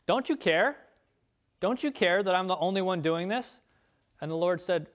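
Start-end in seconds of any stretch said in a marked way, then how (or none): 0.1-3.6 a hint of Martha whining, rising pitch; lightly voiced plea of a put-upon sister; complaining Martha. Martha complains to the Lord, lightly voiced and whining. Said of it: "Martha complained".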